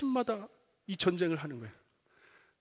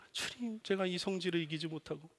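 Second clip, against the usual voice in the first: repentant prayer; 8 dB quieter than usual. Retold or imitated. Father confessing his temper to God, quietly ashamed. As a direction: admit your failing under your breath. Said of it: "회개 기도합니다".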